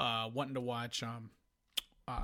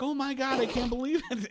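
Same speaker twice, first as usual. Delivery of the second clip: much higher mock disbelief; mocking the wife; 11 semitones higher than usual. Husband mimicking wife's disbelief at the news. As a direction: gasp it in a high mocking voice.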